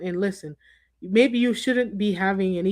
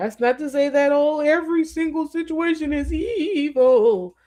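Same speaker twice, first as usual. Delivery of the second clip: high cartoon superhero voice, "evil" drawn out; 7 semitones higher than usual. Speaker making a point to listeners, breaking into a Mermaid Man voice. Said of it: "in my mermaid man voice".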